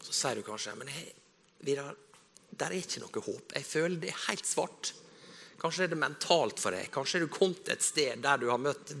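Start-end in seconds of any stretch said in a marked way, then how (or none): 0.8-4.9 hopeless despair. Retold or imitated. Despairing listener quoted.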